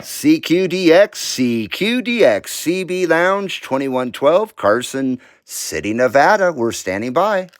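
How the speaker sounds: slow, friendly radio call; a lightly put-on friendly American radio voice. Shown as a demonstration. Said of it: "I'm using my very friendly American voice".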